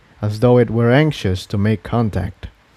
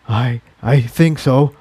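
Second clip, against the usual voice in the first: slow, faltering answer; shaky. Acted. Jigsaw, panting, answers shakily to Incendia. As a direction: stammer it, still rattled. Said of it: "Jigsaw answered shakily".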